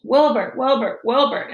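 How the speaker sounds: lightly voiced girl screaming her brother's name; still screaming. A narrator's reading. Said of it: "But I kept screaming".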